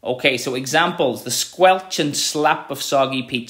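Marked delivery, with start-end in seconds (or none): 1.2-3.5 slow, sound-painting delivery; slow expressive reading. Shown as a demonstration. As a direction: read slowly, savouring the sounds. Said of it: "you can hear the sound".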